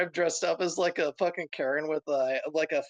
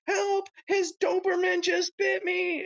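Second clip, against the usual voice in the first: high, fake panicked Karen shriek; a high, mock-panicked Karen yelling about a dog; slower than usual. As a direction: cry wolf over a poodle, hammed up. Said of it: "this Karen who was".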